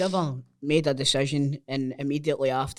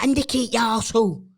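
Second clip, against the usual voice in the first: mock yell; 4 semitones higher, 5 dB louder than usual. Yelling at driver who didn't indicate.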